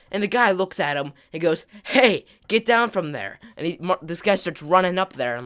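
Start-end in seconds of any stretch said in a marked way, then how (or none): 1.8-3.4 louder, higher call of a worker; retold yell. Worker shouting at boys on the crane, yelled warning. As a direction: bark it up at kids on a crane. Construction guy yells at kids.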